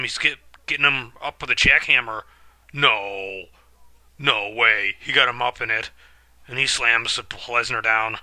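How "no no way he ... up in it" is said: rising alarm. Real, not acted. Watching the jackhammer.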